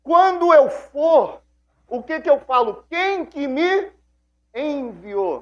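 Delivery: high, anxious pleading voice; worried Moses. Retold or imitated. Moses, worried, asking God how to face the people. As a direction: fret aloud, voice climbing high and slow. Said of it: "Aí ele preocupado fala".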